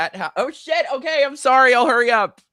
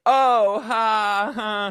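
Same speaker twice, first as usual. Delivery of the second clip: forced ha ha, caught out; awkward fake laugh; 6 semitones higher, 5 dB louder, much slower than usual. Caught by the actor, forcing a laugh to cover. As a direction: laugh it off nervously.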